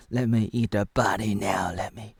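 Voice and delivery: hungry whisper. Pretend. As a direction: breathe it out with craving. Vampire craving.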